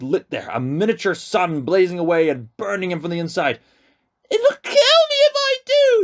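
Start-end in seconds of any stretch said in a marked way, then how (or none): 4.3-6.0 put-on high, breathless panicked boy; gasping in fear. A narrator's reading. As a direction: gasp it out, terrified. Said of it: "he gasped".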